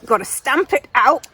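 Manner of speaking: mock disgust, lightly voiced English invader; hammed-up English disapproval; English colonial bully. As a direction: grumble as an affronted English overlord. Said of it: "the English came in and said".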